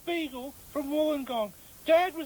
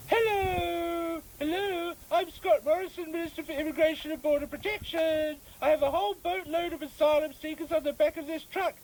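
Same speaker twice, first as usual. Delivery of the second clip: lightly voiced politician impression; a hint of a stiff minister; Scott Morrison. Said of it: "I do a very good Scott Morrison".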